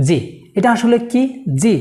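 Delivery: জি said the common Bangla way, as a plain j; common wrong pronunciation. Shown as a demonstration. Teacher showing learners how the letter is usually misread, plain mispronunciation. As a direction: say জি with an ordinary Bangla j. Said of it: "No, এটা হলো".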